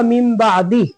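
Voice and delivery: बादी cut on a breathed "ih"; stopping form. Shown as a demonstration. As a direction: stop at बादी, without a long last vowel. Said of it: "रुकेंगे तो क्या होगा?".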